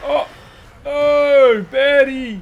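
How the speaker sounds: loud high delighted cry; excited admiration. Real, not acted. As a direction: gush over a cool find. Admiring new tame.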